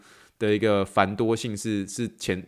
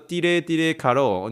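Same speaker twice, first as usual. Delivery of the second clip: mock Hindi; 5 semitones higher than usual. Shown as a demonstration. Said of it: "就叫印度话叫做".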